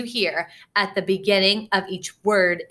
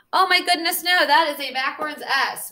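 mock surprise; 6 semitones higher, faster than usual. Teacher mock-surprised at wrong letter.

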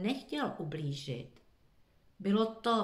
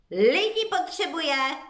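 higher, louder exclamation; cry out; 8 semitones higher, 7 dB louder than usual. A narrator's reading. Jay cries out her idea, louder. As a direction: burst out with the idea. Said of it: "vykřikla".

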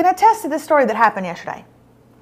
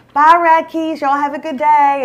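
friendly farewell; 3 semitones higher than usual. Retold or imitated. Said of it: "everybody's like".

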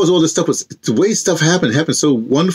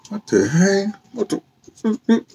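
baffled exclamation; 7 semitones higher, 3 dB quieter, much slower than usual. Retold or imitated. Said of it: "I'm like".

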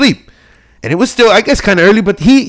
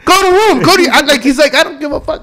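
nonchalant dad; 4 semitones lower than usual. Retold or imitated. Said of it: "But very nonchalant".

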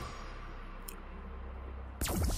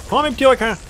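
high, loud attack shout; 1 mock battle cry; 10 semitones higher, 4 dB louder, faster than usual. Player attacking again, loud high battle cry. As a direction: yell it out like an attack.

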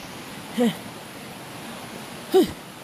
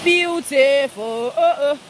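very slow, drawn-out beautiful with a light put-on voice; lightly voiced friend, slow and drawn out; Maso's voice; 3 semitones higher, 3 dB louder, much slower than usual. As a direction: stretch out Beautiful slowly, lightly imitating someone. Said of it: "In Maso's voice".

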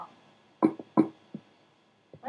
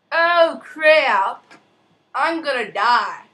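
panicked; 3 semitones higher, 9 dB louder, much slower than usual. Real, not acted. Night panic.

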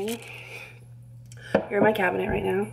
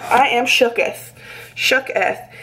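1 mock-archaic shooketh; slower than usual. Real, not acted. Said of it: "I'm shocked".

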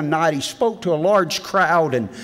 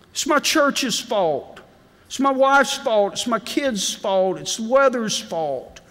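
mock excuses; 6 semitones higher, slower than usual. Listing excuses mockingly.

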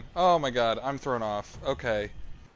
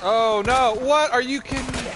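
high, raised-voice disbelief; exasperated disbelief; 6 semitones higher, 4 dB louder than usual. Real, not acted. Player protesting as the game turns bad, exasperated disbelief. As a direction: cry out, incredulous and high.

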